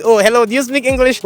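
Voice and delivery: naive newcomer. Acted. Newcomer asking anybody on the street, lightly acted naive foreigner.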